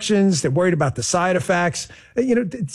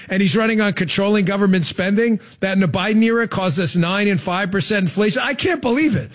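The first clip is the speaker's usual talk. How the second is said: dripping sarcasm. Acted. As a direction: feign scandalized outrage at the candidate. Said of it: "if you're sensing the dripping sarcasm".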